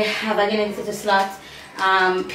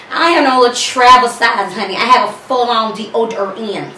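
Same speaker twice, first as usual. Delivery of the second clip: sassy; 5 dB louder than usual. Real, not acted. Sassy brag.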